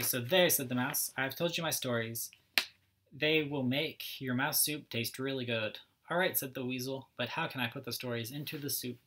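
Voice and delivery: lively storybook read-aloud, each character lightly voiced; reading to children. A narrator's reading. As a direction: read it like story time for little kids.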